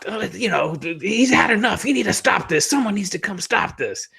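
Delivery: high, pleading commentator voice; imitating Jim Ross. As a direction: beg them to stop the match. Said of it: "Jim Ross would be like".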